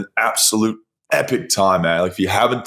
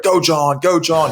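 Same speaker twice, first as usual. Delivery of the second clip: higher-pitched imitated cheer; lightly called-out encouragement to a runner; mock cheering; 8 semitones higher, slower than usual. Spectator cheering a stranger at the marathon, mock cheering.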